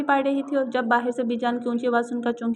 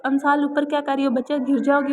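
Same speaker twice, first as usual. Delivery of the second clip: louder call up to the roof; 2 semitones higher, 4 dB louder than usual. Acted. Grandmother calls up to the girl on the roof, louder. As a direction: call her down from below. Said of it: "इस आवाज़ दी".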